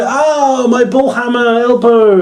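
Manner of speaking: mocking pained wrestler. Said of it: "and he's like".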